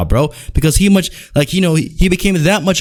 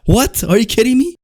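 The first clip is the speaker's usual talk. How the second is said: pitched-up, laughing disbelief; incredulous disbelief; 8 semitones higher than usual. Real, not acted. Ranting fan scoffs at Triple H's merch claim, incredulous.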